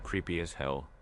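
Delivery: soft hushed voice, not quite a whisper. A narrator's reading. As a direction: breathe it out quietly in fear. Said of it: "Lewis whispered".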